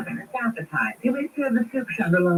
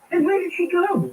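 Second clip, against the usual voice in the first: impatient demand; 10 semitones higher than usual. Acted. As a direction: press the servant hard. Mistress interrogates servant.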